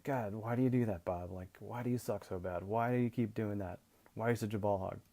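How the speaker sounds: mildly exasperated mock coach; acted nagging, lightly frustrated; exasperated scolding. Coach harping on an athlete's negatives, mildly exasperated. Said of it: "just harp on those negatives".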